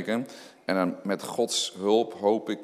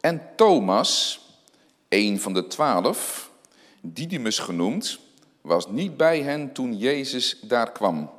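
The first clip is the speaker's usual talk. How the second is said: scripture reading. Acted. Reads John twenty aloud.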